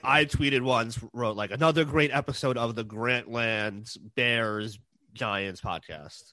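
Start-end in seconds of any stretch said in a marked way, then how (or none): 1.5-6.3 slow, deadpan sarcastic praise; sarcastic tweet read out slowly. Retold or imitated. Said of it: "you're being sarcastic".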